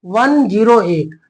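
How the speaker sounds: slow, each digit apart: वन, ज़ीरो, एट; slow repeat. Shown as a demonstration. Teacher repeats the reading slowly for students, deliberate. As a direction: spell out वन ज़ीरो एट slowly for the class. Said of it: "कैसे पढ़ेंगे?".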